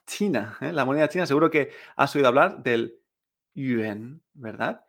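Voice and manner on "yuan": YUAN as "yü-en", rising from low; second-tone pronunciation. Shown as a demonstration. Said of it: "con segundo tono".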